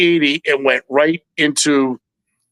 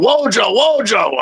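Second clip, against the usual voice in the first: retold yelling; 9 semitones higher than usual. Retelling Richie calling Joe over to see, mock yell. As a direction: imitate an urgent call, pitched high. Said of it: "and then he's yelling".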